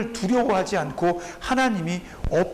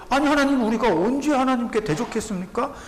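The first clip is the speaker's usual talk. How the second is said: higher, aggrieved people talking back to God; mock offended denial; indignant protest; 4 semitones higher than usual. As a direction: play the defensive worshipper protesting. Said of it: "이렇게 사람들이 하나님 앞에 얘기한다는 거예요".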